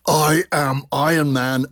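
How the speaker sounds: slow metallic robot voice; drawn-out, imitating a metallic voice effect; a singer. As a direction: intone it slowly like a metal man. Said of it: "the metallic sound on the singer's voice saying".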